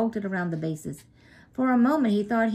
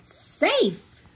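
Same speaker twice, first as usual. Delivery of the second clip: umpire's call; 11 semitones higher, 5 dB louder than usual. A narrator's reading. Umpire calls the play.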